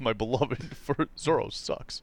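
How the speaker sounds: mock highbrow. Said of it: "the highbrow language".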